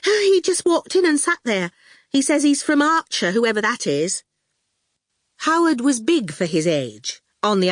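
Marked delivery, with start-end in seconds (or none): 0.1-4.2 high, jittery student voice; nervous jitter. A narrator's reading. Student explains the goon to Howard, jittery. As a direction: talk fast and fretful. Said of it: "Fifi jittered nervously".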